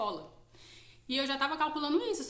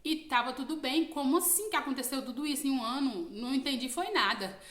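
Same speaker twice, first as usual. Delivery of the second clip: startled protest, pitched up and slowed; bewildered disbelief; 3 semitones higher than usual. Retold or imitated. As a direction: ask it like you can't believe it. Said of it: "E aí eu falei assim".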